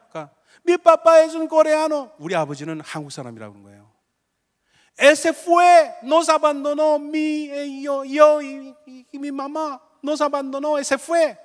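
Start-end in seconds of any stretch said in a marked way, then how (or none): 0.7-2.1 put-on high, slow voice of a weeping little girl; crying little girl. Pastor voicing the crying girl on TV, high and tearful. 5.0-11.4 put-on high, slow voice of a weeping little girl; crying little girl. Pastor voicing the crying girl on TV, high and tearful. Girl sobbing out her story.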